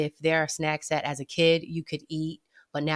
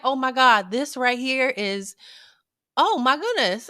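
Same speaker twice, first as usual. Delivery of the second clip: blissful delight; 5 semitones higher than usual. Retold or imitated. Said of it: "I was like".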